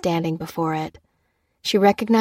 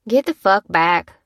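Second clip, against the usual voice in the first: harsh, louder bark; barked threat; 5 dB louder than usual. A narrator's reading. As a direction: snarl it at him. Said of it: "barked the man in the gray hoodie".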